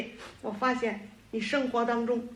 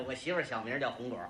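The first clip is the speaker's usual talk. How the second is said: low, soft, quick confession; deep, hushed comic admission; low aside; 11 semitones lower, 7 dB quieter, faster than usual. Acted. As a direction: slip it in under your breath. Sheepish aside revealing wife's nickname.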